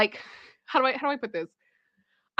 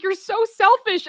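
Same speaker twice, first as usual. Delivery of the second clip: high, slow, raised-voice accusation; mock yelling; 9 semitones higher, 5 dB louder than usual. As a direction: imitate a heckling chorus, high and drawn out. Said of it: "the French peas are just yelling at them".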